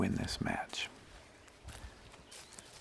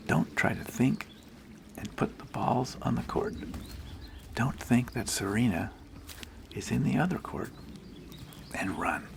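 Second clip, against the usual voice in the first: put-on Italian accent; 4 semitones higher than usual. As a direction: lightly imitate the Italian player coaching herself. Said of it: "In her Italian accent".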